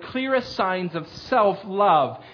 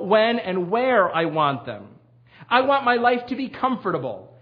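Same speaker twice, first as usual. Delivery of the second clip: a touch louder, earnest reading; reading a quote; 3 semitones higher, 3 dB louder than usual. Retold or imitated. Preacher reading Paul Tripp's confession aloud to the church. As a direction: read the confession with rising conviction. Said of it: "I'm gonna quote from him".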